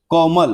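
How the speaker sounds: कोमल with a long, held first vowel; drawn-out vowel. Shown as a demonstration. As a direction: take your time over the को in कोमल. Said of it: "time लगेगा".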